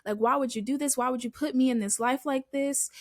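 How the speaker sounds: a touch of angry reproach; mad at God. Retold or imitated. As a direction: demand answers in mildly heated questions. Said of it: "I got mad at God again".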